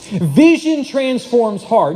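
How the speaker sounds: slow but connected emphasis; measured repeat. Real, not acted. Preacher repeating the line for the congregation, slow and connected. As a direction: repeat the key line slowly as one phrase.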